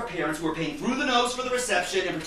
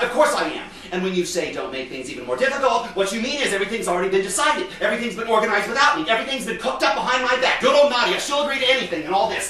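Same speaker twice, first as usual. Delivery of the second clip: aggrieved. Acted. Aggrieved mother lists her grievances.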